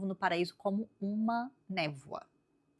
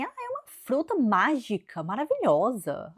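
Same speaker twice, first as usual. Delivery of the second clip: higher, lightly sly snake selling fruit; tempting serpent; 5 semitones higher, 4 dB louder than usual. Retold or imitated. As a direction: lure her in, mock sweet. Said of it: "ele fala assim".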